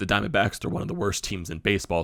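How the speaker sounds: cracking voice. Talking through upcoming baseball matchups, voice cracking. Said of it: "Sorry for my voice crack there".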